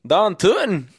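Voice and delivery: put-on Norwegian-Shrek Minnesota accent. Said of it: "a little bit of Norwegian mixed with a little bit of Shrek".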